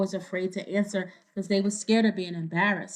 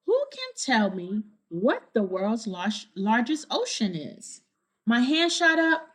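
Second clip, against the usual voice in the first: clear, lively storybook reading; reading to children. A narrator's reading. Reader telling kids the story, bright storybook narration. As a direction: read it to a room of kids. Reading picture book aloud.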